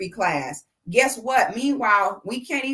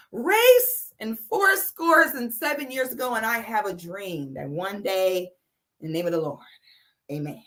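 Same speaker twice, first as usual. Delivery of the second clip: lightly hammed-up speech, fading to a whisper on amen; mock preacher speech; 2 semitones lower than usual. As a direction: mimic a grand speech that trails into a hushed amen. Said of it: "and was like".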